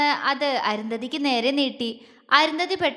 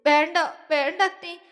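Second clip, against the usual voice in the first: sobbing; 4 semitones higher than usual. Acted. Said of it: "തേങ്ങി കരഞ്ഞോണ്ട് പറഞ്ഞു".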